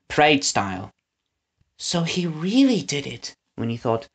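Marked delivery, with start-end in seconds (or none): 1.8-3.3 put-on soft, higher girl's voice; barely holding together; holding back tears. A narrator's reading. Winnie realizes the truth, fighting back tears. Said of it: "fighting back tears".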